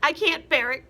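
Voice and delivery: high, loud anguish; frightened wife; crying Mrs Twit. Acted. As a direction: wail it. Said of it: "cried Missus Twit".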